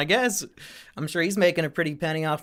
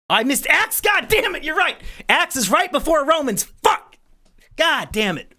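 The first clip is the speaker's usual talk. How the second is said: high, loud exasperated swearing at himself; real annoyed yell at his own mistake; frustrated outburst; 10 semitones higher, 3 dB louder than usual. Real, not acted. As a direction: kick yourself out loud for the slip. Realizes he skipped a book.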